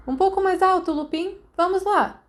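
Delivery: megaphone-style shout. A narrator's reading. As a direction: bellow encouragement from the ground. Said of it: "ribombou de baixo, gritando através de um megafone".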